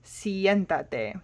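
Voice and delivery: siéntate stressed on EN, the syllable before the ending; stress on second-to-last stem syllable. Shown as a demonstration. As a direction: say siéntate with the accent on siEN. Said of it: "accent will go on the syllable before".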